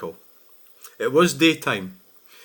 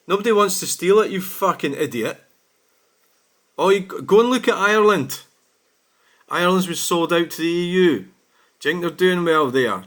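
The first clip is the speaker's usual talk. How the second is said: higher and louder, heated and scornful; angry rant; 5 semitones higher, 5 dB louder than usual. Real, not acted. Driver ranting back at an abusive commenter, heated scorn. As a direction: lay into him with scorn.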